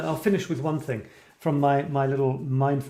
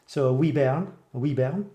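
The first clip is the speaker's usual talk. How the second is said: Scottish accent. Shown as a demonstration. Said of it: "plus the accent".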